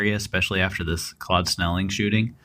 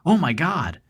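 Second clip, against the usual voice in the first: imitated high shriek, only a little louder; mock high-pitched cry of alarm; 9 semitones higher, 3 dB louder than usual. A narrator's reading. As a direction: yelp it high, like a startled prowler. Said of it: "in a high-pitched shriek".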